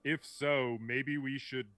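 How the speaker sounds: storm giant voice. Acted. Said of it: "booming from that storm giant voice".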